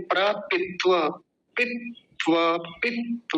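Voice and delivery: प्रपित्व as pra, pit-va, with a full va; separated syllables. Shown as a demonstration. Teacher making it easier to say, syllabic pronunciation. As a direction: split प्रपित्व and sound the end openly. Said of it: "अलग अलग कर लीजिए".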